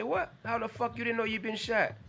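high, sharp squeak of disbelief. Retold or imitated. Host reacting to the drummer's story, stunned and high. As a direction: pop the what way up in shock. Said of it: "I said".

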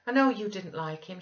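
high, loud eagerness held in a little; slightly repressed delight. A narrator's reading. Wife answering her cross husband, delight barely contained. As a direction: concede the point while bubbling underneath. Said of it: "repressing a little the intensity of her delight".

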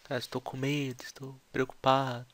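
whispered, softly worried; scared whisper. Shown as a demonstration. Teacher acting out the meaning of "afraid" to students. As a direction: hush it like you're scared.

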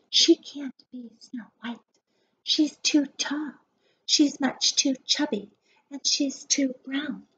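hushed, breathy gossip whispered behind her back; whispering girls. Acted. Girls whispering cruel gossip about Tamika, hushed. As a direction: whisper it like mean kids huddled together. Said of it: "other girls whisper".

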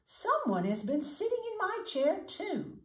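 a house-proud mother bear getting worked up; Mama Bear. Acted. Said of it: "said Mama Bear".

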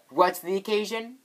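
high-pitched, overdone curiosity; hammed-up question climbing high at the end; way too much. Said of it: "that is way too much".

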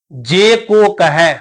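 slow recitation, open "ai" ending on ਕਹੈ; double-lavan vowel in ਕਹੈ. Shown as a demonstration. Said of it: "ਕਹੈ ਹਾਏ ਤੇ ਦੁਲਾਵਾਂ ਲਾ ਕੇ". (ਕਹੈ ਨੂੰ ਦੁਲਾਵਾਂ ਲਾ ਕੇ)

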